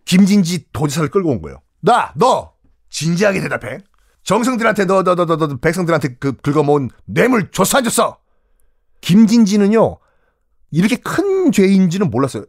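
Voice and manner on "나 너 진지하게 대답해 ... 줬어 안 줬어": a hint of an angry interrogation; king grilling the corrupt governor; stern king. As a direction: press him, repeating the accusation.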